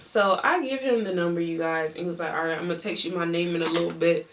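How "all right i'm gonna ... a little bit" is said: quick, lightly imitated Louisiana accent; a rough attempt at a Louisiana accent. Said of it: "I'm doing this accent is because he's from Louisiana".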